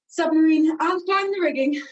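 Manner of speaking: breathless from moving around; puffing between words; out of breath. Real, not acted. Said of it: "I'm out of breath already".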